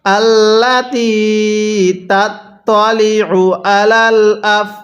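slow, drawn-out syllables; slow recitation demo. Shown as a demonstration. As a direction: chant each syllable for learners. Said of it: "আমার সাথে পড়ুন।".

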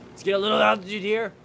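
high, loud urgent yell. Real, not acted. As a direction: shout it over the chaos. Flying helicopter, now yelled.

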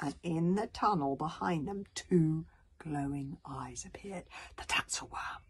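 slowing, hushed reveal; suspenseful story narration. Acted. Author reveals the Tatzelworm in the tunnel, suspenseful. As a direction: let the monster emerge with dread. Reads the monster's appearance.

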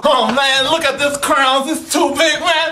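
put-on little kid voice. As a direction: play an excited small kid. Plays little kid role.

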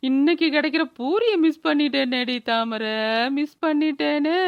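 hammed-up wail of regret; tearful lament. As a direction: draw out the last words in mock grief. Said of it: "திடீர்னு அழுவுற". (அழுது புலம்பும் குரல்)

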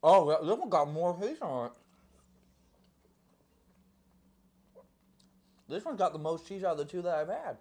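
chewing; talking with food in mouth; mouth full. Real, not acted. Seen 1: holds pizza, bites at 2.6s, chews while speaking throughout.

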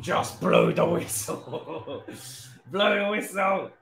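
slow, breathy begging through a laugh; exhausted laughing plea to the ref; desperate plea. Real, not acted. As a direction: plead with the ref, half laughing, half dying. Begging the ref to end match.

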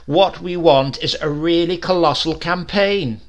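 an eager advertising man rallying the committee, loud; booming salesman. A narrator's reading. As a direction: sell it like an ad man. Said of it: "he heard a familiar voice saying".

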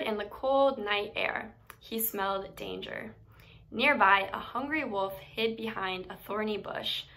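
gentle storybook read-aloud; animated picture-book narration with character voices; reading to children. A narrator's reading. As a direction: tell it like a bedtime story for kids.

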